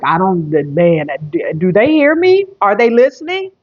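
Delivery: rising, pleading doubt; worried viewer voiced; imitating viewer. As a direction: ask as if unsure anyone hears. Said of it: "you like".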